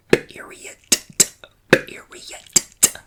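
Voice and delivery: loud forceful whisper; whisper shouting. Real, not acted. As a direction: hiss it with full force. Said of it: "Yes, I'm whisper shouting at you".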